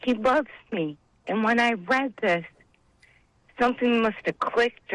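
holding back tears while testifying; getting emotional. Real, not acted. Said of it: "I'm sorry to get emotional".

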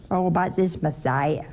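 ordinary delivery

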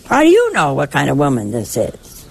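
challenging the big shot at the banquet; challenging retort. Pretend. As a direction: call the big shot out: how do you know, buddy. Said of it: "And I wanted to say".

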